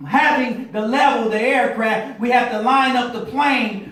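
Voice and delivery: preaching. Acted. Pilot lesson turned sermon.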